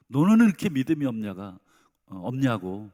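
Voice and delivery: loud, accusing rebuke of a weak believer; mock scolding. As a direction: bark out the blame like a harsh elder. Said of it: "비난만 하지 마십시오". (믿음 없다고 꾸짖는 흉내, 크게)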